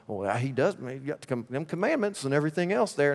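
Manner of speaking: lightly voiced smug churchgoer; a hint of a know-it-all Christian, quiet; funny put-on voice. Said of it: "don't know why I chose that voice".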